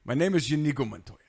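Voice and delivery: lightly voiced movie swordsman; a hint of theatrical introduction; Inigo Montoya. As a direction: quote the famous line with mild drama. Movie line quoted in turn.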